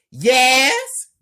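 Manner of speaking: loud, high yelled reply; high-pitched shouted answer; yelling. A narrator's reading. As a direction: yell back from another room. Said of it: "Megan yells".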